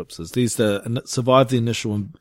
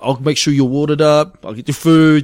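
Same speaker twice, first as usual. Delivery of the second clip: hype man cheering. Retold or imitated. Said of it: "I'll be just going".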